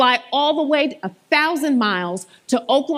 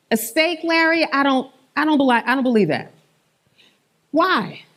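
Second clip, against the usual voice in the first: mock disbelief. Shown as a demonstration. Coordinator role-plays doubting Larry's steak answer. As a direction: tease the patient as if you don't believe it. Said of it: "I'm gonna show you how".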